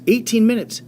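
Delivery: Eighteen minutes jumps way up high in amazement; excited exclamation to the class; amazed. Real, not acted. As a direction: sell the shock of how short it was. Teacher stresses astonishing battle length.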